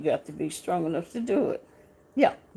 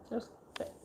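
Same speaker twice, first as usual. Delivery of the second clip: hushed whisper; 14 dB quieter than usual. Real, not acted. Whispered moment of death.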